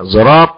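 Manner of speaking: "زراط" opening on a sad blended toward an emphatic z; ishmam. Shown as a demonstration. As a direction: voice the first consonant of "زراط" like a heavy z. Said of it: "بالإشمام". ("زراط" بإشمام الصاد زايًا)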